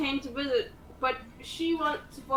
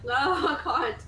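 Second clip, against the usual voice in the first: laughing refusal; 2 semitones higher, 5 dB louder, slower than usual. Retold or imitated. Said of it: "and I was like".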